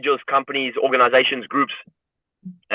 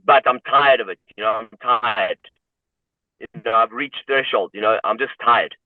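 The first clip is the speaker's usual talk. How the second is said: emotional weariness; 4 semitones lower than usual. Real, not acted. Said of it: "I actually feel emotional right now".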